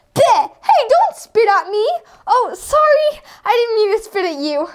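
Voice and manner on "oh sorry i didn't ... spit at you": high teary sorry; tearful apology. Acted. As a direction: apologize near tears. Character apologizes after spitting.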